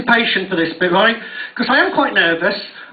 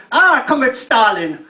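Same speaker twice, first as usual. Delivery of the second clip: mock Russian accent. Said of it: "that's obviously how Russian people speak".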